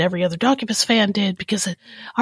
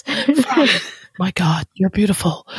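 sultry narrator. Pretend. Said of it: "in my sexy voice".

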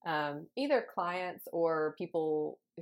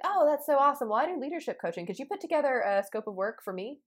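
high, bright mock client gush; eager client voice; 5 semitones higher, 3 dB louder than usual. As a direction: gush like an excited prospect. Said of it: "And they're like".

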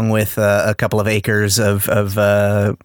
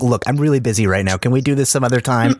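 soccer mom. Retold or imitated. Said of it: "full on soccer momming it".

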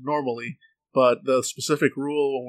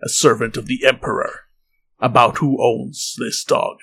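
stern interrogator. Acted. Soldier continues the interrogation.

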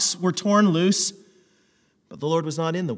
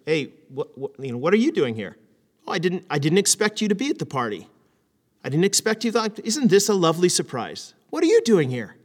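pleasant surprise. Shown as a demonstration. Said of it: "two different ways that you can ask".

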